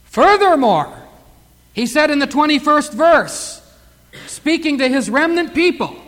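ordinary talk

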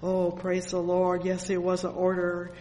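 usual speaking voice

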